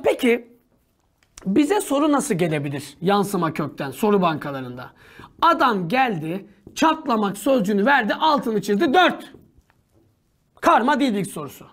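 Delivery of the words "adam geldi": ordinary talk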